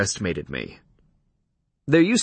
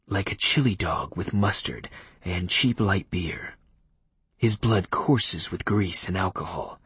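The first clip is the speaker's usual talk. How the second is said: low, soft formal vampire; vampire Leif voice; 3 semitones lower, 3 dB quieter than usual. Acted. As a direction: speak like a cool, stiff old vampire. Leif describes the smell.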